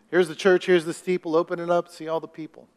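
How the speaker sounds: correct rhyme version. Retold or imitated. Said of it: "that's not the way it goes".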